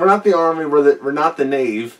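Army said as "Anemi", with a syllable slurred; swallowed syllables. Retold or imitated. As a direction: mumble Army like "Anemi" and blur Navy. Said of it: "he loses a syllable".

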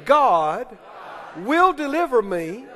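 measured, emphatic phrases with pauses; out-loud declaration. Shown as a demonstration. Preacher leads the congregation saying it aloud, emphatic declaration. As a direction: proclaim it for others to repeat. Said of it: "said out loud".

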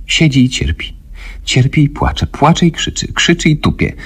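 high, panicked rush of a frightened woman; wysoki, spanikowany kobiecy głos; terrified woman. A narrator's reading. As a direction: pour it out in high, frantic fear. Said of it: "twarz skurczoną przerażeniem".

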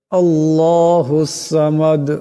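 আল্লাহুস সামাদ slow, with the final dal bounced; echoing dal. Shown as a demonstration. Teacher demonstrates the qalqala on the dal. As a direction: let the dal in সামাদ jolt. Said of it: "জটকা আসবে".

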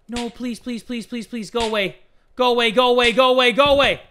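begging, building to loud go away; frantic pleading. Real, not acted. Begging enemy to leave.

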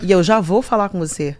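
deepened voice. Retold or imitated. Telling the rude woman to wait, voice put on low. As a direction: drop the voice low like a tough guy. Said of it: "Testosterona já vem na goela".

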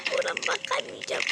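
quick hushed whisper. Real, not acted. Vlogger refusing to look, whispering. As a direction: breathe it out fast, turning away. Turning away from the screen.

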